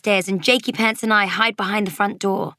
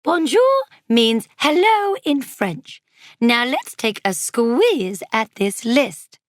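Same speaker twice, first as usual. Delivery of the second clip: higher, louder slow teacher voice; cheerful babysitter; 5 semitones higher, 4 dB louder, slower than usual. Acted. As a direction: explain it brightly to kids. Marge explains French word.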